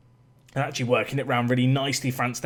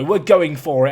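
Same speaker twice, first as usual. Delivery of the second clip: louder declaration; 7 dB louder than usual. Real, not acted. Manager commits to attack.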